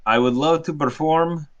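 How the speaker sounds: lightly faked Russian accent; showman's promise with mild Russian accent; bad Russian accent. Performer promises to entertain the guests, bad Russian accent. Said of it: "He's doing a very bad Russian accent".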